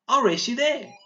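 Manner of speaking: put-on high, loud excited shout of a racing girl. Shown as a demonstration. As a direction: call it out like a challenge to race. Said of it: "She's shouting this out".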